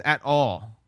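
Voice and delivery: AT ALL set apart with weight; "At all" stressed as an absolute; emphatic. Retold or imitated. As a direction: land "At all" as a firm, final emphasis. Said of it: "this word is very emphatic".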